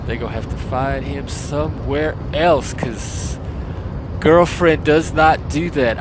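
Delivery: mock gay voice, lightly put on; a hint of hammed-up gay character, stretching words; badly faked gay voice. Streamer proving he can't do gay, half-hearted camp voice. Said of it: "the one voiceover I think I could not do ... is the gay".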